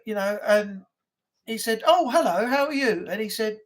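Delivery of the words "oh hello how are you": lightly voiced cheery dad, higher pitch; mock-friendly phone greeting, lifted and lilting; imitating dad. Dad answering a cold caller, mock-friendly imitation. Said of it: "I like what my dad did".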